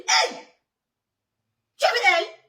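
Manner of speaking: loud, high shocked "Tu es avec elle?"; shocked cry. Retold or imitated. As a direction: call out in disbelief. Shocked reply to cousin's news.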